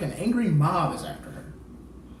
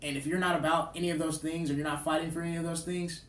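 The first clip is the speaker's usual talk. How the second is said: softer, measured closing speech; quiet, serious tribute to close the show; earnest tribute; 5 dB quieter than usual. Real, not acted. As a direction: honor him sincerely, with restraint. Closing tribute to Doctor King.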